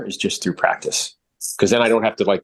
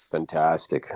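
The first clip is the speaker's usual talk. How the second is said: mock the trainee's lifeless, quiet, lower "Fantastic."; low-energy imitation; 6 semitones lower, 6 dB quieter, slower than usual. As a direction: say "Fantastic." softer and lower, like you don't care. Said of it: "You sound fucking pumped".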